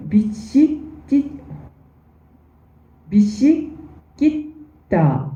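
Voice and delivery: slow, broken syllables with long gaps; halting, careful reading of 비시끼따; sounding out syllables. Shown as a demonstration. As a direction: sound out 비시끼따 slowly, one syllable at a time. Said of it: "약간 발음이 다른 거죠".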